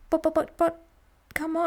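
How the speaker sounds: high, whiny but-but-but; mock pleading. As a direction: plead like a sulking child. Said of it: "Yeah, it's like".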